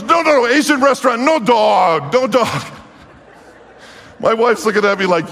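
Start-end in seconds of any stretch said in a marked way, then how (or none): 0.0-2.7 waitress insisting. Retold or imitated. Waitress insisting no dog served.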